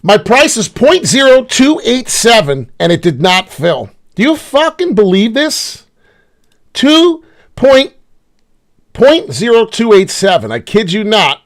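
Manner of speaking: loud, high, slow angry outburst; real furious yelling; furious rant. Real, not acted. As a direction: shout the price out in disbelief. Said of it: "I'm so annoyed right now".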